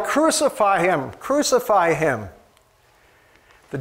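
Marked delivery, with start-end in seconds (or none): 0.0-2.3 retold crowd yell. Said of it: "The crowds yelled".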